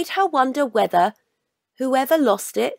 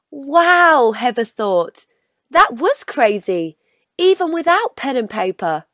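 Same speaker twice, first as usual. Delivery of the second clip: delighted wow; 4 dB louder than usual. Acted. Child's delighted exclamation.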